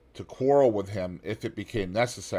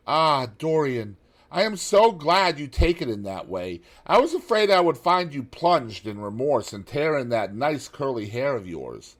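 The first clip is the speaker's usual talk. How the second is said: high, loud gentleman's voice, relieved and teasing; Lord Henry; 6 semitones higher, 7 dB louder than usual. A narrator's reading. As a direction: lift it high with easy relief.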